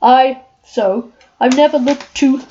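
lightly voiced lion, timid and stammering; Cowardly Lion. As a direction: read the lion's lines with a nervous stammer. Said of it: "I am the Cowardly Lion".

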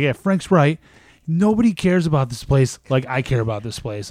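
hammed-up boss proclaiming nobody cares; mock ranting boss. Boss agreeing with Frank, mock loud ranting.

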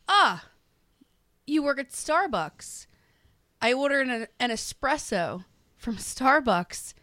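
high, slow, pleased-with-himself customer; Peter at the counter. Retold or imitated. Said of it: "he goes".

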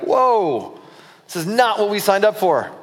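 taken aback, mildly hammed-up; startled objection. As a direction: balk at alarming news, voice lifted. Disciples balk at shocking news.

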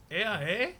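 lightly put-on Canadian accent; joking attempt at a Canadian accent; mock Canadian accent. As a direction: do a casual Canadian with a questioning "eh". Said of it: "accurate we are on our Canadian accents".

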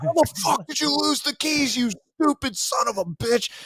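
high, strained mock tirade; furious scolding. Superior to Marine who lost Humvee keys, mock-furious scolding. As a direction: screech it like an outraged superior without full volume.

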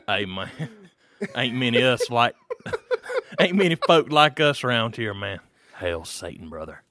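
retelling it, lightly voiced redneck; southern redneck accent. Repeating the story for Josh in a southern accent. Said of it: "southern accent shit".

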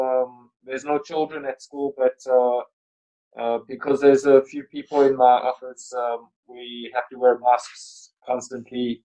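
muffled behind a mask; speaking through a mask; through a face mask. Real, not acted. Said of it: "Not very well".

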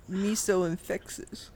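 high, slow mock Chinese accent; bad Chinese accent. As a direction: repeat it in a put-on Chinese accent. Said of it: "this bad Chinese accent".

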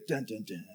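imitated "dun dun dun" suspense sting; suspense music sting. Pastor imitating the background music as each sack opens, mock suspense sting. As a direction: voice a low-key dramatic music cue. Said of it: "in the background you'd hear".

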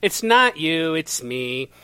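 put-on lightly done British accent; amateur attempt at sounding British. Breaking up over a Tory, in rough British accent. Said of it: "I do this in a British accent".

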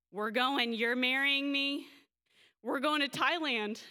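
replaying her younger giddy certainty; excited announcement. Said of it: "John walks in my door and I say".

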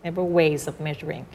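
"several ways of measuring" joined smoothly; slow, linked "several ways of measuring"; natural linking. Shown as a demonstration. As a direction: run "ways" straight into "of". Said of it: "มันจะลิงก์ตามธรรมชาติ".

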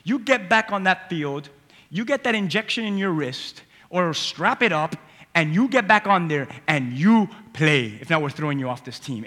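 a hint of a coach ordering the player back; stern coach. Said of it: "right in the face say".

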